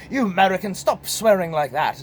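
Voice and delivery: mock pissed-off Brit. Offended British viewer telling off Americans, mock pissed off. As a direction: scold like an annoyed British listener. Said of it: "The British are gonna just be pissed off at me".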